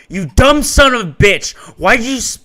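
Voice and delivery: furious high shout; screamed. A narrator's reading. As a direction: scream it at him in a rage. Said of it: "He screams the Mikan".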